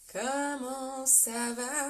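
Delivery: slow, stretched-out sing-song hello; long mock-crooned ça va; drawn-out greeting. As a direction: drag out the greeting playfully. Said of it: "Oh là là, quelle voix".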